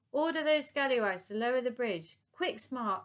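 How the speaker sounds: high, loud brisk order. Acted. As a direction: bark the command. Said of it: "ordered the Admiral".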